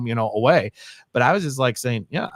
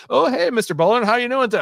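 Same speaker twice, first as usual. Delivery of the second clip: put-on cheery kid greeting; 12 semitones higher, 5 dB louder than usual. Kids greeting principal in hallway.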